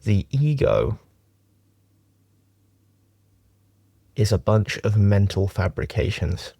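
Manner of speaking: measured meditation teaching with long pauses; unhurried, leaving long silences between phrases; guided meditation. Acted. Teacher talks friends through a closed-eye meditation, guided meditation.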